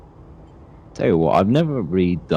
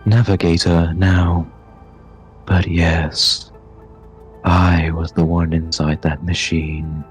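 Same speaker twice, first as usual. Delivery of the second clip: lightly voiced, measured Navigator; a hint of a stately otherworldly guide; slow Navigator figure; slower than usual. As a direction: speak slowly as a solemn game character. Game master voices Navigator.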